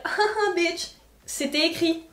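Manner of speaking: high, taunting laugh-and-jeer; hammed-up mocking retort; mocking gloat. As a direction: gloat like you caught them out. Imagine la marque qui se moque.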